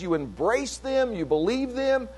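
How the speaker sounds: ordinary delivery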